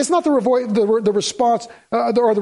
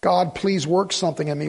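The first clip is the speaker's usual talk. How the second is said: slow, lower pleading prayer; mock prayer; 3 semitones lower, slower than usual. Pastor acting out his own prayer for help, slow and pleading. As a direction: ask God humbly, slowly. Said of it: "I say".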